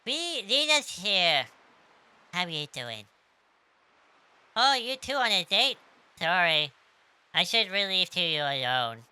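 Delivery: high, loud, cartoony puppy voice; cartoony dog voice. Poshul teasing Serge and Lena, high loud cartoony dog voice. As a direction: bounce it up high like an excited little dog.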